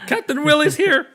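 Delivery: loud, high triumphant announcement; Captain Willie. Acted. Captain Willie entering the shop, loud high heroic announcement. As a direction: burst through the door proclaiming yourself. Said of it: "he just goes".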